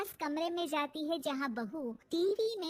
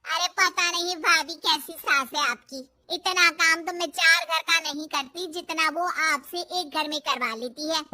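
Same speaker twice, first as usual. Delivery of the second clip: complaining maid; 6 dB louder than usual. Acted. Maid complains about the mother-in-law.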